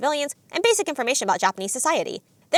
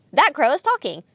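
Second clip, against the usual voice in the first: mildly raised voice, in mock disbelief; disbelieving shout; 3 semitones higher, 3 dB louder, slower than usual. Narrator quotes Zenitsu shocked by the crow, mock disbelief. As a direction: imitate a stunned outburst without fully shouting. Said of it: "shouts in disbelief".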